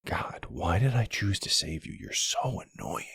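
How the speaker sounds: vampire complaining quietly about the human she carries; muttered aside. Acted. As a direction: grumble it to yourself. Exasperated aside while carrying them.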